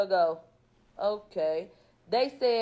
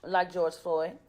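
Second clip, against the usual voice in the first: loud imitated plea to police; retold desperate plea, much louder; mock pleading yell; 8 dB louder than usual. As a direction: cry it out as if pinned down. Retold plea during police arrest.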